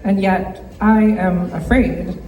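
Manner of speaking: measured spoken-word poem with long pauses between verses; poetry recitation. Acted. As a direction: recite your own poem to an audience, phrase by phrase. This poem is called Hunger is Inherited.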